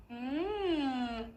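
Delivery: warm-up hum through the straw; short straw phonation hum. Shown as a demonstration. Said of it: "this is what I would do to warm up".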